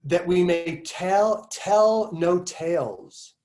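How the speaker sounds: slow, measured recitation with pauses between phrases; essay reading. Acted. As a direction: read the passage out deliberately, stretching key words. Resumes reading the passage.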